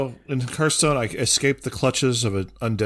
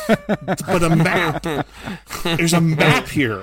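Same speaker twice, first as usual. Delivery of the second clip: imitating son; 6 semitones higher, 3 dB louder, much slower than usual. Son insisting on the map.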